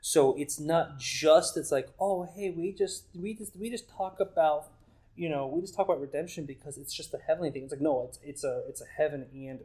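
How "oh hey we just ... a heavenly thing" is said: lightly imitated breezy talk, pitched up; higher mock-casual voice; mock glib chatter. Mimicking a glib view of redemption.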